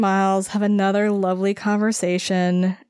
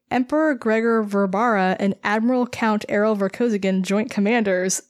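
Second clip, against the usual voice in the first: proper, ceremonious title read; formal full titles. Shown as a demonstration. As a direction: announce them like a herald. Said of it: "I have to say it right".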